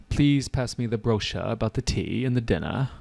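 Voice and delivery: lightly put-on British English, r's dropped; mock British accent. Shown as a demonstration. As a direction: tease with a British-accented polite request. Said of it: "In America, we say brochure".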